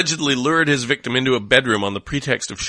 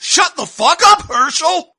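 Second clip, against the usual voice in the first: high shouting sandwich voice; a squeaky bully egging him on; angry meat voice; 7 dB louder than usual. Acted. Meat yells at another food.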